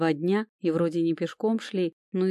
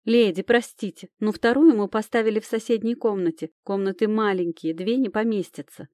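извиняющимся тоном; 4 semitones higher, 4 dB louder than usual. Acted. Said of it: "извиняюще произнесла хозяйка".

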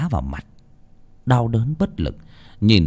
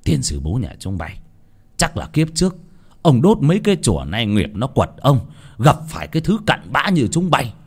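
mild shout. Acted. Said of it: "Lão Chánh quát".

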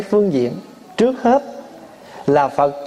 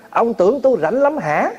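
escalating mock retort; 5 semitones higher than usual. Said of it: "gia tăng ra".

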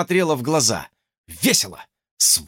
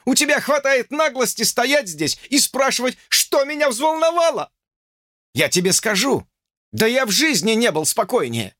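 higher, heated indignation; a touch of offended pride; indignant young man; 10 semitones higher than usual. A narrator's reading. George ranting at Lucy indignantly.

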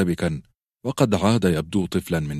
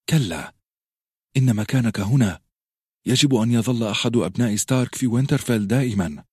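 firmly; 4 semitones higher than usual. Acted. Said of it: "قالت له بحزم".

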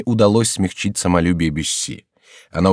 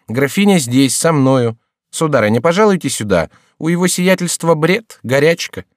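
high, louder maid's voice; 8 semitones higher, 4 dB louder than usual. A narrator's reading. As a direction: chirp it as the young maid. Gertrude answers the count.

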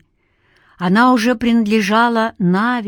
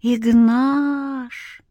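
a faint higher call, as if inside his head; echoing memory voice; 4 semitones higher than usual. A narrator's reading. Remembered girl's voice in his head, a faint echo. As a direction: let it ring like an echo. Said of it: "голос эхом отозвался внутри головы".

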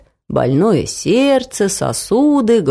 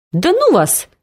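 higher, mildly huffy brush-off; a light touch of a hurt grandmother; offended grandma; 9 semitones higher than usual. A narrator's reading. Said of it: "обиделась бабушка".

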